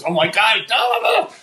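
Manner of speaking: imagined starstruck babble; mock gushing. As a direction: climb in pitch as you pretend to gush over an idol. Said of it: "my immediate reaction mentally was to stand up and attack him with love".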